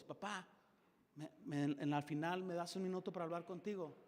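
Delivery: soft, polite request to dad; a child calmly asking father for a minute; respectful tone. Shown as a demonstration. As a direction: ask gently, with respect. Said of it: "Cambia tu tono de voz".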